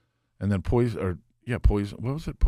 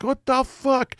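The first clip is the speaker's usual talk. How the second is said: very high stunned squeak; mock shock; 5 dB louder, much slower than usual. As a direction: blurt it in disbelief. A rock singer, shocked.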